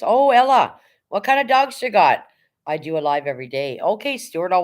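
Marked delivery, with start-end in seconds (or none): 0.0-2.3 excited. Real, not acted. Greeting a viewer in chat.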